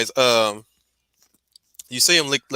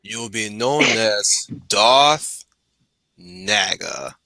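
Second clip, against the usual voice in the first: Sith lord voice; 2 semitones lower, slower than usual. Pretend. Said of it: "Join the dark side".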